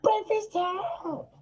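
slow, high, cracking voice. Real, not acted. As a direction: voice breaking on every word. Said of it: "voice crackle that's going on right now".

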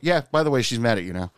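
casual retold coworker, lifted start dropping away; nonchalant. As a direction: mention it offhand, like small news. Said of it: "So very nonchalantly".

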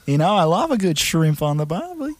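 Australian Bendy. Acted. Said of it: "I am Australian after all".

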